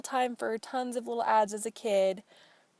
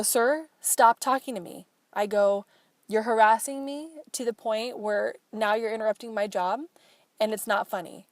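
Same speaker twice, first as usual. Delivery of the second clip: snapping at him; 4 dB louder than usual. Retold or imitated. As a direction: cut him off hard but keep it controlled. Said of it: "I just snapped at him".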